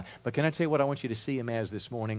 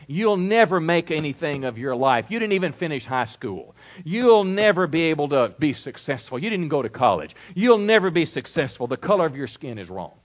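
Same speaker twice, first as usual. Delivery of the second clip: loud, higher, jeering voice; shouting taunts; 4 semitones higher, 6 dB louder than usual. Retold or imitated. Preacher voicing the inner voice taunting the listener, loudly. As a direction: hurl the insults down at the listener. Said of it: "It was shouting".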